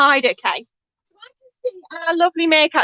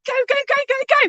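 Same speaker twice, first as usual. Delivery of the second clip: excited; 9 semitones higher, much faster than usual. Acted. Urging kids to run for plane.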